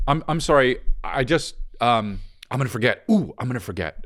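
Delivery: stammering as the thought arrives; flustered apology. Shown as a demonstration. Co-host retries interrupting politely, flustered and apologetic. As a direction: apologize haltingly, as if it just hit you. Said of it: "it's all coming at you then".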